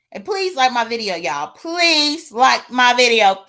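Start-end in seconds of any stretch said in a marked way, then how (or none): 1.5-3.5 slow, drawn-out plea in a lightly put-on voice; Claudiva voice. Shown as a demonstration. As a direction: stretch out the request in a slight character voice. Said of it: "Thank you in my Claudiva voice".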